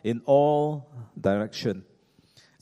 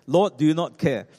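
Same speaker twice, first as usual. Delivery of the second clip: louder, insistent cry of complaint; stressed exclamation; 3 semitones higher, 5 dB louder than usual. Acted. Martha complaining to her VIP guest, stressed exclamation. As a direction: let the stress spill out in a protest. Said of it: "the stress spilled out of her mouth. She exclaimed".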